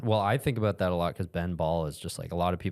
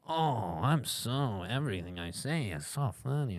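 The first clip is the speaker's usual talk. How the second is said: high smug self-amused voice; mock a guy who thinks he's hilarious; mocking the henchman; 4 semitones higher, 4 dB quieter than usual. Mocking a movie henchman who finds himself funny, high and smug. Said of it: "that one henchman guy was like".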